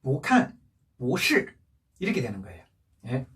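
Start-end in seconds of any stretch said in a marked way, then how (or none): 0.0-0.6 "보" rising, "칸" falling in fourth tone; weak-strong tones on "보칸"; second tone then fourth. Shown as a demonstration. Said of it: "이성으로 해서". 1.0-1.5 "보" drawn out rising, "실" falling in fourth tone; weak-strong tones on "보실"; second-tone 보. Shown as a demonstration. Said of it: "이성으로 해서".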